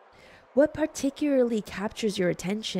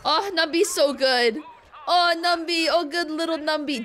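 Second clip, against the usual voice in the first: cooing; 6 semitones higher, 3 dB louder than usual. Real, not acted. Cooing at a pet character.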